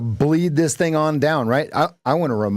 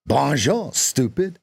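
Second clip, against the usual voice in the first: lightly put-on French accent; a jokey French tone; mock French accent; 2 semitones higher than usual. Coach teases in a mock French accent. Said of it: "how Americans think that French speak".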